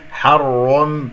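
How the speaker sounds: حرم with lips rounded on the heavy ر. Shown as a demonstration. Teacher showing what to avoid, rounded lips. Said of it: "أكور الشفتين".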